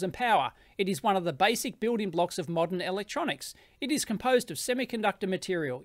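straight, slightly subdued read with little inflection; dry script reading. Shown as a demonstration. Vlogger reading a test script for a voice clone, dry and straight. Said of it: "try and read it pretty straight".

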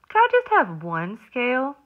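high, pleading little voice; pleading little fish. Acted. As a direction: beg sweetly for a scale.

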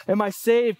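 mild anxious self-doubt; anxious believer. Retold or imitated. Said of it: "We will continually question".

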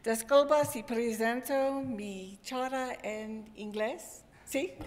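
Spanish with a real American accent; careful Spanish from an English speaker. Real, not acted. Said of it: "mi español no es muy bueno".

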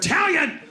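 Italian split as "EYE, TALIAN!", pitched high; mock Italian as the letter I plus the rest; letter-name mispronunciation. Comic ridiculing the error, high mocking "Eye-talian" for Italian. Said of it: "You don't say the letter I".

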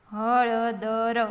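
every letter voiced separately; sounded out. Shown as a demonstration. Teacher spelling for beginning readers, sounded out. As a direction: draw હળદર out as ha-la-da-ra.

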